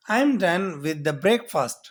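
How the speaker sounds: very slow, each word laid out clearly; slow model sentence. Shown as a demonstration. Teacher giving the son's breakfast line to learners, drawn out. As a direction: say it slowly enough to copy. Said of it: "اب میں آپ کو کہتا ہوں".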